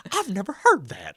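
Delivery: imitated knee-slapper, high, loud and slow; tickled mother. Mom hearing the soldier's comeback, imitated hilarity.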